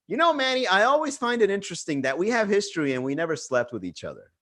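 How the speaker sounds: lightly voiced woman making a proposition; imitating her come-on. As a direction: put on her coy, leading line. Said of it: "she said it like that".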